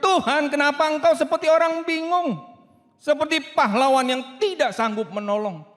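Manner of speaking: loud anguished cry to God. Retold or imitated. Prophet Jeremiah crying out to God, loud and anguished. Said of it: "Yeremia teriak".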